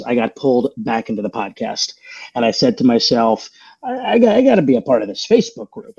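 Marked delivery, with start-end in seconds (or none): 3.8-5.9 excited. Retold or imitated. Eager resolve, retold inner voice.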